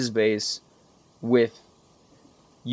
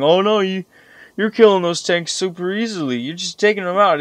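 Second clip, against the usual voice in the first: higher, louder mock voice of a doubting viewer; 8 semitones higher, 4 dB louder than usual. Gamer mocking a viewer who thinks the tanks were easy, lightly voiced mock tone. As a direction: parody a smug viewer's objection. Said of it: "Now you might think".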